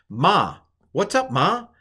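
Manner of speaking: "Ma, what's up, Ma?" asked high and lifted; question word demo. Shown as a demonstration. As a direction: toss it off as a casual question. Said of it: "ma means what?".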